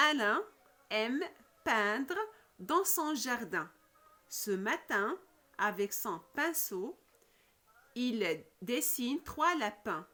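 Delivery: slow, phrase-by-phrase reading with pauses; classroom read-aloud. Shown as a demonstration. Teacher reads a short text to pupils, measured read-aloud. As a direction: read it out in small chunks for learners.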